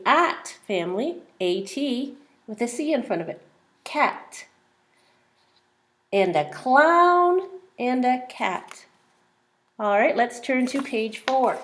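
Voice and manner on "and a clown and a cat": slow, word by word; slow read-along. Shown as a demonstration. Teacher rereading the page slowly with the child. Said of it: "Let's read the page together".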